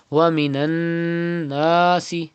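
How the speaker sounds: full tajweed reading of ومن الناس; stretched alif. Shown as a demonstration. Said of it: "And then stretch alif madda".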